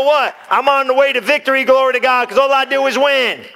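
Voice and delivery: triumphant cheer. Shown as a demonstration. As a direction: chirp it like you've already won. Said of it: "put a smile on your face and go".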